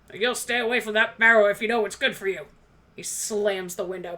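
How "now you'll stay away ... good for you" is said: gruff warning. Acted. Dwarf threat, fast.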